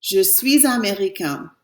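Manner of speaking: "Je suis américain" again slowly, nasal ending; teacher repeating the model; slow French repeat. Shown as a demonstration. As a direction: repeat for students. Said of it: "I'm going to say".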